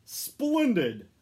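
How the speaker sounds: loud high booming cry; booming Santa. A narrator's reading. Santa delighted the sack is loaded, booming. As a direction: boom it out with delight. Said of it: "boomed Santa".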